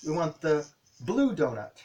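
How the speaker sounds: "blue" said clearly and firmly; stress on blue. Shown as a demonstration. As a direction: lean on "blue" for the child. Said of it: "I'll say".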